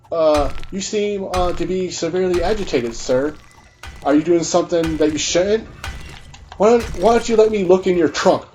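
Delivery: lightly voiced polite, hesitant officer; imitated officer. Acting officer questioning an agitated driver, polite and hesitant. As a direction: question him carefully, pitch lifting at the end.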